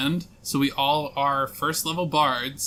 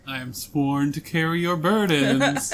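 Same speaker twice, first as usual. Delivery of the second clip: slow deadpan follower voice; flat, dutiful and slow; Lydia impression. Quoting Lydia's deadpan line.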